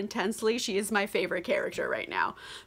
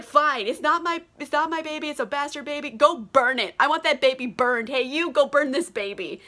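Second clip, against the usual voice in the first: mock exasperated outburst, pitch raised at first; Leo getting angry; 4 semitones higher than usual. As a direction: imitate a petulant king losing his temper, without shouting. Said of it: "he just gets so angry".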